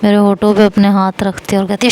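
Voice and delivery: ordinary delivery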